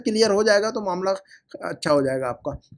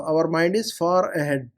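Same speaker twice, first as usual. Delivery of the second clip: slow emphasis; much slower than usual. Shown as a demonstration. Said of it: "teacher stresses point".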